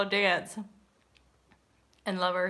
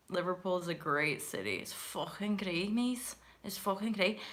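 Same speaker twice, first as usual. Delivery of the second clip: softer, put-on Liverpool accent; Scouse accent; 6 dB quieter than usual. Praising Liverpool as a great city, Scouse accent.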